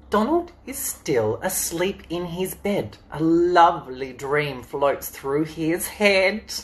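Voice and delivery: slow, sing-song storybook rhyme; reading to children. Acted. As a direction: read it slowly like a bedtime story. Reading picture book to children.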